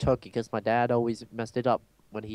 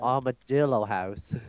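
mock Southern twang; Southern accent. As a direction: finish it in a put-on Southern drawl. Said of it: "I could go all Southern".

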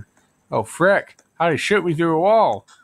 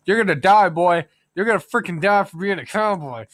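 threatening yell; 5 semitones higher, 4 dB louder than usual. Acted. Threatening enemy as sheriff.

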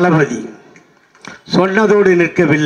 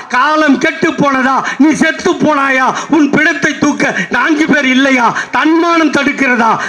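higher, ringing rally-stage questions; rising rhetorical shout; 6 semitones higher than usual. Acted. Orator to the rally crowd, pitched-up shouted questions. Rhetorical climax about death costs.

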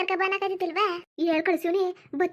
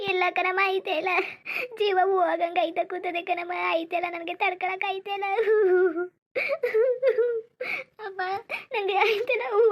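pained pleading. Acted. Daughter in labour pleading to mother.

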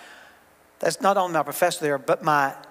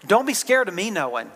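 light and amused, half laughing; a playful warning through a laugh; laughing lightly. Real, not acted. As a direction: tease it with a chuckle. Joking, then turning serious.

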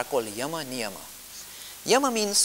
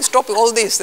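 louder, a stern order to stop; firm command; 6 semitones higher, 10 dB louder, slower than usual. Retold or imitated. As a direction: lay down the law. Quoting the sage's command.

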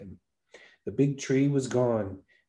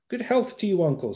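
the fool greeting; 8 semitones higher than usual. A narrator's reading.

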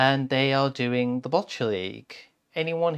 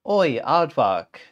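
loud, slow story-book call; 6 dB louder, slower than usual. Acted. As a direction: hail the aardvark loudly, stretching it out. Frog calls out in story.

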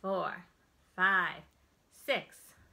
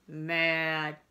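mad; 9 dB louder than usual. Acted. Reading feeling words with expression.

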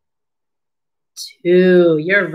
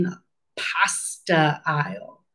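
whisper; 4 semitones lower, 7 dB quieter than usual. Real, not acted. Teacher whispering the answer to the children. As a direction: lean in and whisper it.

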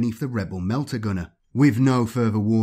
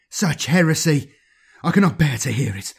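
higher and louder, scandalized outburst; outraged cry; 5 semitones higher, 5 dB louder than usual. Acted. Administrator outraged after shooting a rebel, crying out. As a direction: recoil from the heresy aloud.

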